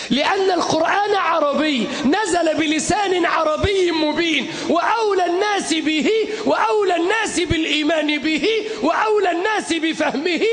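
fiery shouted sermon; soapbox orator. Acted. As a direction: preach it with full force to a crowd. Rising anaphora in sermon.

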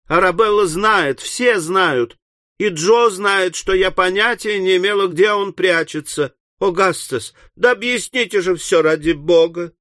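put-on agitated young woman's appeal; pleading daughter. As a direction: plead your innocence in a lifted voice. Daughter pleads innocence to father.

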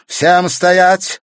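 loud, high, hard order; harsh command. A narrator's reading. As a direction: bark it at them. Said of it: "жёстко приказала графиня".

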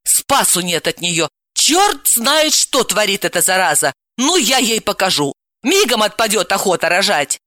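exasperated grumbling threat; mildly outraged; indignant. Acted. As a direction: complain crossly, working up to a threat. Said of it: "возмутилась".

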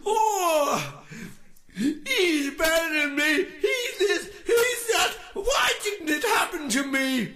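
high, loud, hammed-up crybaby wail; mock the jealous amateurs with a blubbering shriek; mock whiny musician. Ranting vlogger mocks jealous musicians, high mock sobbing wail. Mocking jealous rivals again.

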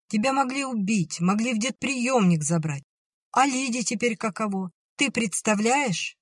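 high, heated scolding; older sister scolds the runaway, high and heated. A narrator's reading. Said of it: "отчитывала её".

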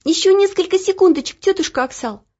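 put-on high girlish pleading, drawn out; sleepy girl begging the cook; pleading drawl. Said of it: "умоляюще протянула Оля".

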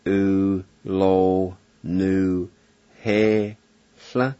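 repeating U, lo, nu, he, sla syllable by syllable; Cherokee pronunciation. Shown as a demonstration. Teacher repeating the Cherokee syllables for learners. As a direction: say U, lo, nu, he, sla again, one syllable at a time. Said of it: "and it's pronounced".

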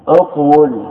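اقول said uq-wul, with a sounded w; underlying form. Shown as a demonstration. Teacher recalling the origin of qul, uq-wul sounded out. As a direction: say اقول as uq-wul, two syllables. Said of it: "أصله".

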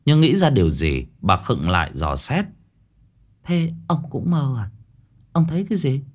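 wife answers husband lightly, then suspicious; lightly voiced wife. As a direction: answer him offhand, then probe.

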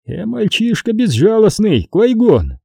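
high-pitched villainous taunt; purring taunt. A narrator's reading. Xanatos to Qui-Gon about his apprentice, purring taunt. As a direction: needle him in a high villain voice. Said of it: "промурлыкал Ксанатос".

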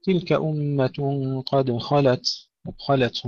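slow recited "قد خلت" with thick kha; heavy kha. Shown as a demonstration. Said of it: "تفخيم الخاء جيدا".

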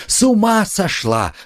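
high, startled bystander; gawking onlooker; shocked exclamation. A narrator's reading. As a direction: blurt it out in alarm.

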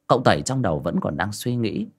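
plain reading voice

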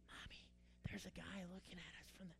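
put-on hushed child's whisper; kids whispering. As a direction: whisper it like a scared little kid. Kids whispering about man on roof.

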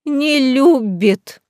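very slow, drawn-out wail; drunken cry. A narrator's reading. Drunk lady crying into the viscount's ear. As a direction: wail it straight into his ear. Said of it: "прокричала Хлойс в ухо виконту".

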